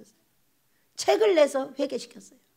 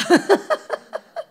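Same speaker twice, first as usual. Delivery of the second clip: high burst of laughter; 7 semitones higher, 4 dB louder than usual. Real, not acted. Laughter at child's story.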